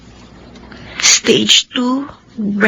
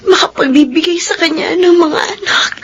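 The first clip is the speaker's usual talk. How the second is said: crying; 3 semitones higher than usual. Acted. Explaining the breakup, starting to cry.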